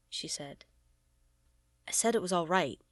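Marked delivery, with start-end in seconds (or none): 1.9-2.8 snarled. Acted. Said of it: "he snarled back".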